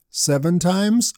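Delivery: slow hopeful seven times; questioning guess. Shown as a demonstration. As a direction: offer it as a tentative guess. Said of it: "What do you think?".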